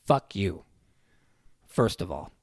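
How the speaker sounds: level, unhurried put-down; dead calm. Retold or imitated. Dad to a raging policeman, dead calm. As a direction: deliver it evenly, with pauses, unruffled. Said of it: "just dead calm".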